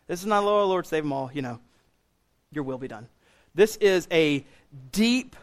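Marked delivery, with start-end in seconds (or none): 0.4-1.3 half-hearted mock prayer; passive prayer. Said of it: "a passive prayer". 2.5-3.1 low, much softer, listless mock prayer; passive prayer. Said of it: "a passive prayer".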